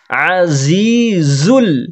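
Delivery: আজিজুল with a slow stretched ain; long drawn azizul. Shown as a demonstration. Teacher demonstrating the ain in আজিজুল. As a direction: draw out আজিজুল, pressing the ain from mid-throat. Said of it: "আইনে হবে টান".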